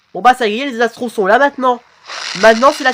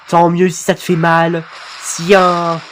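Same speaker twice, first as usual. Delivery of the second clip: lightly robotic, monotone delivery; even robot drone, unmoved. Acted. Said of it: "Franchement, ta voix robotique". (légère voix robotique)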